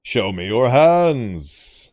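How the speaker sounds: very slow, deliberate order; slow commanding. Acted. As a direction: draw out the command like a cop. Command said twice.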